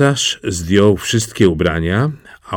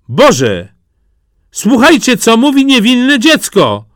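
high, loud call; 14 semitones higher, 5 dB louder than usual. Acted. Father calls the crowd to hear his child, loud. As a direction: cry out to the crowd. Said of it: "zawołał jego ojciec".

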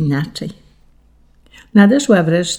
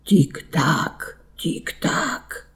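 ticking in the night; 7 dB quieter, much slower than usual. A narrator's reading. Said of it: "jak zegar donośnie wyzwania".

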